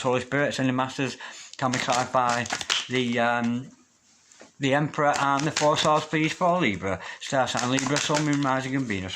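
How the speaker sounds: murmured prayer-like invocation to spirit guides. Acted. Tarot reader asks her spirit guides for clarity, prayer-like murmur.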